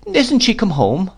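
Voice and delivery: high-pitched, plaintive question; rueful. A narrator's reading. Boy asks nurse about his absent mother, rueful. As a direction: ask it high, like a disappointed child. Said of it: "said I ruefully".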